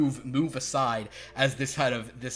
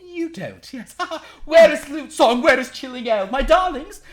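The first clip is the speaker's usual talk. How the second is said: high calling out; 14 semitones higher, 13 dB louder than usual. Acted. Galliard calls for followers.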